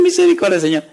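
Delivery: high frantic cry for mercy; panicked plea. Retold or imitated. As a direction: shriek the prayer like a terrified woman. Mother cries out during earthquake.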